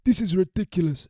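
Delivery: hammed-up African accent with indignation; mock African accent. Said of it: "I can only do".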